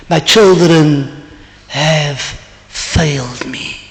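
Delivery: slow, softening lament, mildly acted; imitated tearful old man. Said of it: "he was crying".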